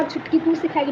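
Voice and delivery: gentle, soft, loving scold; a fond little warning, gently; soft affectionate tease. Retold or imitated. The man speaking softly to the little girl, affectionate and gentle. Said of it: "धीरे से ऐसे प्यार वाला".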